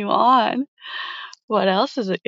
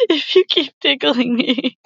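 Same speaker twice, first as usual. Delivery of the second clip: being tickled; 5 semitones higher than usual. Acted. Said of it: "You're tickling me".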